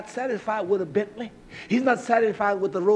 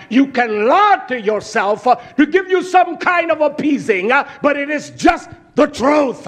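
raised, high preaching voice; forceful preaching; 5 semitones higher, 3 dB louder than usual. Real, not acted. Preacher telling congregation not to lie to themselves, forceful preaching. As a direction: drive it home like a preacher.

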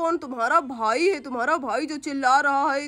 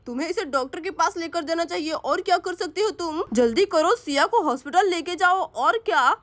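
scolding father; 5 semitones lower than usual. Acted. Father scolding Ram to take Siya to hospital, lower scolding. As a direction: scold the useless boy.

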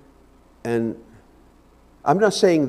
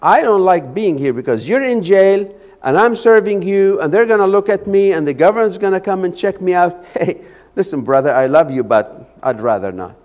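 excuses voiced as Epaphroditus; 5 semitones higher, 6 dB louder than usual. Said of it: "Or he could have said".

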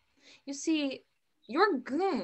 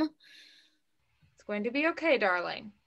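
reassuring; slower than usual. Acted. Mother comforts daughter at gunpoint.

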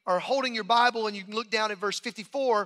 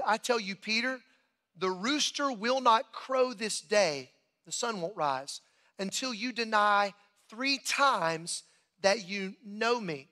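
scripture reading; slower than usual. A narrator's reading. Reads scripture aloud.

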